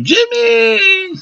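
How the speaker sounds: very high, delighted call of his name; a girlfriend running up to greet her man; excited greeting. Retold or imitated. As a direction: squeal his name like she's thrilled to see him. She used to run to me.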